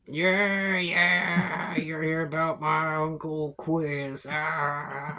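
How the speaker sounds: put-on suspicious old goblin at the door; lightly played wary old goblin; lightly voiced old goblin.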